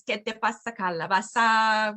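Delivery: slow model phrase. Shown as a demonstration. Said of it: "does anybody wanna translate".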